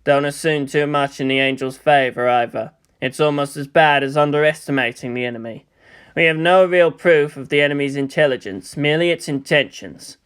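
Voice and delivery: low, measured lecture; a touch of stern authority; cold commander. Acted.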